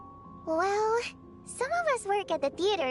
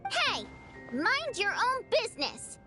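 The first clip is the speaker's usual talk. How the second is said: indignant; 5 semitones higher than usual. Acted. Teased woman snaps back.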